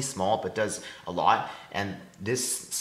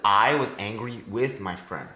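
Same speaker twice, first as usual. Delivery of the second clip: slow line stressing I, ANG of "angry" and WITH; trochaic stress. Shown as a demonstration. Student giving an example of trochees, trochaic stress. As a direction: recite slowly, leaning on "I", "angry", "with". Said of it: "this one is stressed, unstressed".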